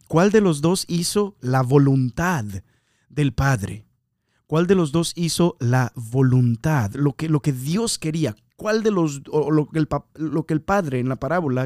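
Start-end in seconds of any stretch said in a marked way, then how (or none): 4.5-6.9 slowed down, each word set apart; slow it down so the question sinks in; slow, weighed question. Shown as a demonstration. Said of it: "En otras traducciones dice".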